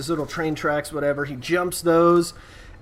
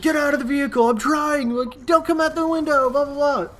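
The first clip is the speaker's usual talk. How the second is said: high, lightly raised voices; mock yelling recap; 11 semitones higher than usual. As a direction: rattle off the shouting.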